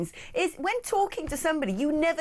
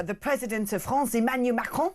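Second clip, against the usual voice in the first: put-on French accent. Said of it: "you can say".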